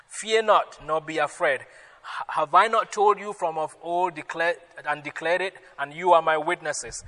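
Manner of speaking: emphatic pulpit reading; scripture reading. Acted. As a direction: proclaim the verse to the congregation. Pastor reads scripture aloud.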